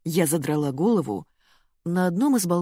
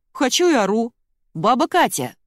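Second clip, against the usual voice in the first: defiant yell; 7 semitones higher, 6 dB louder than usual. A narrator's reading. Girl yelling up defiantly.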